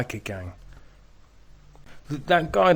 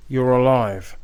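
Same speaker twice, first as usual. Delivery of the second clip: mocking the protester; 7 dB louder, slower than usual. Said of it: "do you hear that?".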